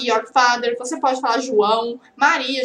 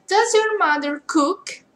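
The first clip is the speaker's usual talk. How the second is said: slow model question; 4 semitones higher, slower than usual. Shown as a demonstration. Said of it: "Eu pergunto pra você".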